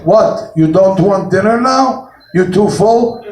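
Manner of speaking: lightly imitated Russian wife, puzzled questions; Russian accent. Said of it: "wife was Russian".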